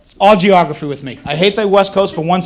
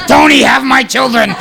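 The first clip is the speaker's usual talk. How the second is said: imagined woman's plea; 5 semitones higher, 3 dB louder than usual. Retold or imitated. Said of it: "They go".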